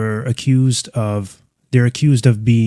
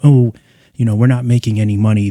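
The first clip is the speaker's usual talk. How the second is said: quick, mocking imitation of a whiny company excuse; mocking whiny complaint; 3 dB louder, faster than usual. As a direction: lightly mimic a self-pitying company rattling off excuses. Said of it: "wanna get on the news and complain and have everyone pity them".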